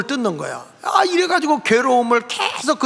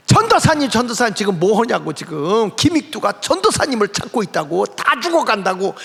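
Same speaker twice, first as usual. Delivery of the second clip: breathless urgent call. Retold or imitated. Church member rushes in and urgently calls the preacher. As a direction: call out in a panic. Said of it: "헐레벌떡".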